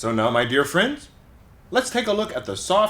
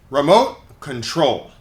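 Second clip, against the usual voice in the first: "remote control" slow, stress marked on each word; stress demo; 5 dB louder, slower than usual. Shown as a demonstration. Teacher models word stress for the class, slow and clear. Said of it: "notice where the stress is".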